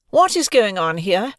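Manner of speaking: high, loud demanding question; stern call out. Acted. Deputy headmistress bursting in on the fight, loud and stern. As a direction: cut through the crowd with authority.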